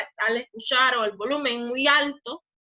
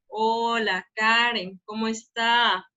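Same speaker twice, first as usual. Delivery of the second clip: unhurried greeting, dragged out at the end; slow talker demo; slower than usual. Shown as a demonstration. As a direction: greet Karen like someone who talks slowly. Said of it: "Ese es el sonido de ellos. Así hablan. Hablan bien despacio". (saludo lento, arrastrando el final)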